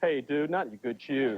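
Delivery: slow, low dude voice; best friend. Retold or imitated. Best friend commenting on shoes, slow low dude talk. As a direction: drag it out like a laid-back pal. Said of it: "imagine your best friend going".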